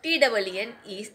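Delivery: letters spelled out slowly and deliberately; spelling it out letter by letter. Shown as a demonstration. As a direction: dictate each letter slowly. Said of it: "मैंने spelling भी लिख ली है".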